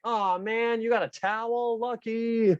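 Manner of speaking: lightly voiced jealous child; a hint of a kid who's impressed; envious kid. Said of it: "a kid out there that's like".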